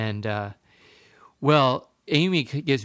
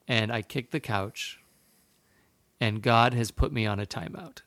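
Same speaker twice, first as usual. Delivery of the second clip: slightly lowered, halting confession; mild contrite apology. Retold or imitated. Father confessing to his young son, gently contrite. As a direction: own up gently, with long pauses.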